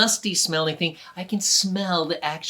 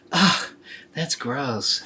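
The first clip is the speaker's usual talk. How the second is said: disgusted; much slower than usual. Acted. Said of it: "She didn't say anything out loud".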